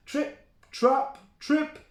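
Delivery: high, crisp trip-trap; hoof steps. Acted. The big goat crosses the bridge, high crisp steps.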